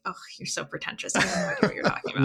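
scoffing, rushed, dismissive; mock pretentious reaction. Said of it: "people are gonna be like".

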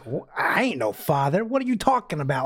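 mock incredulous retort, rising on the question. Recapping Freddy's denial of being a father, incredulous. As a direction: imitate someone in disbelief. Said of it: "Freddy looks incredulous".

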